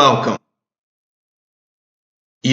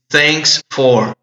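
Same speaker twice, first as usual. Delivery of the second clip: slow model; 2 semitones higher than usual. Shown as a demonstration. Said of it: "Lembre sempre do T H".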